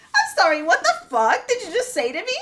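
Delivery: mock furious reply to the district manager; laughing outrage. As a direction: fire back at the manager, half laughing. Retold angry reply, laughing.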